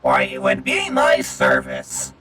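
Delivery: slow, deep, stately butler voice; deep servant voice. Acted. Player voices a humble servant.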